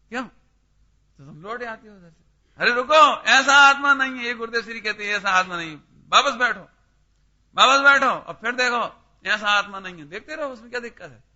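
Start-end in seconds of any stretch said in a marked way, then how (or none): 2.6-4.2 loud halting cry, stop them in their tracks; loud call to stop. Acted. Preacher calls out, stopping listener. 6.1-8.1 loud firm order to sit back down; loud command. Acted.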